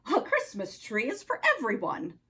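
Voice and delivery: low Russian-accented nutcracker, lightly voiced; a gentle low Russian accent. Nutcracker explains the tree to Oscar, low Russian accent. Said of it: "spoke in a Russian accent".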